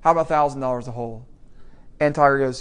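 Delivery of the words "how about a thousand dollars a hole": mock yell. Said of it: "he yells at Tiger".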